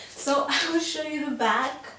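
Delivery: breathless from jumping around; out of breath. Real, not acted. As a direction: talk between quick breaths. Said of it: "I'm always so out of breath".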